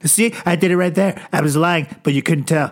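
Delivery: a hint of Trump bragging; lightly voiced Trump. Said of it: "Then Donald's like".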